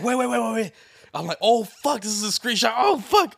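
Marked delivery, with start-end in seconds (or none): 0.0-0.7 high, loud rapid-fire plea; acted-out alarm; mock panic. Acting out the panicked friend. 1.4-3.3 loud, high shocked outburst; mock panic, peaking at the end; acted-out alarm. Acting out shock at the screenshot.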